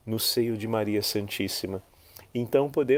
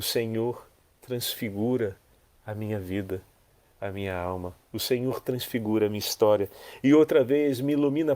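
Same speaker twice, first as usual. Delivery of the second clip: prayer. Acted. Prayer addressed to Mary.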